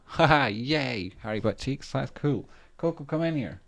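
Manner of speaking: high, laughing call to the cat; delighted pet call. Real, not acted. Owner laughing and calling the cat in, high.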